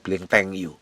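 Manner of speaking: ordinary talk, nothing marked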